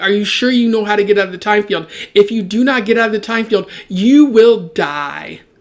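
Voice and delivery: urgent, kind of shouting. Discussing a story, the speaker acts out one character's line to another: retelling, kind of shouting. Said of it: "kind of shouting that right there".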